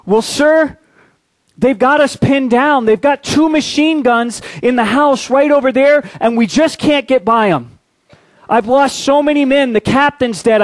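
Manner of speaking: put-on a scared young officer begging for help; nervous lieutenant.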